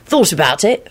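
mildly cheery reply; light, breezy admission. A narrator's reading. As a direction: toss it off cheerfully. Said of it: "Sirius replied cheerily".

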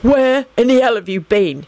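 mildly indignant demand; exasperated questioning. A narrator's reading. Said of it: "he demanded".

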